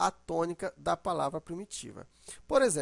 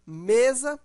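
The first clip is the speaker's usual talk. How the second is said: "mesa" called out higher and louder, ME held; stressed syllable stretched; 4 semitones higher, 5 dB louder than usual. Shown as a demonstration. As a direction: lengthen the first syllable of "mesa". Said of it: "a sílaba que você demorar mais".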